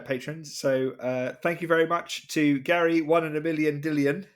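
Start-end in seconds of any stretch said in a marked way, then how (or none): 3.0-4.2 sing-song bingo caller call. Pretend. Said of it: "Is that you doing bingo calling?".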